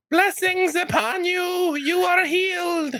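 high, slow priestly blessing; holy healer voice. Acted. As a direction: bless them like a solemn cleric.

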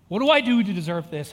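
mild mock yell. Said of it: "the main thing I yelled was".

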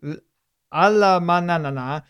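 very slow, careful word-by-word reading; laboured beginner reading aloud; halting Spanish reading. Real, not acted. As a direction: pick through the foreign words slowly.

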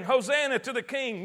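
voiced-up crowd acclamation; declaring praise. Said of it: "they're declaring".

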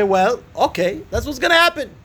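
a touch of the accepting rabbi, rising high on the last words; mild voiced acceptance of his fate; resigned rabbi.

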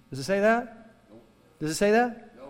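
preacher calling out a question to the crowd, loud and high; rising rhetorical challenge. Real, not acted. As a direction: challenge them: does it say that?.

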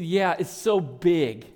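put-on slow, laughing through a child's reply; amused, slowed toddler imitation; laughing child quote. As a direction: let the laugh spill into the words. Toddler's answer, family laughing.

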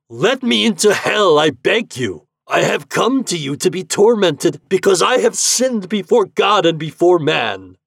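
loud, high, pleading cry. A narrator's reading. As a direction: beg at full voice to be let in. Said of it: "He cried out to the prince of hell".

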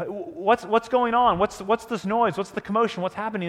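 a string of urgent questions; blind beggar asking. Retold or imitated. Blind beggar asking about the crowd's noise, urgent questioning. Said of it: "He asks".

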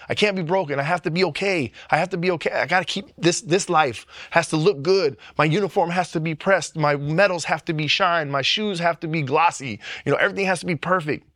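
strained self-talk, speeding up on the last line; driven inner voice. Retold or imitated. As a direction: clamp down, insist it all must be perfect. Retelling old inner pressure.

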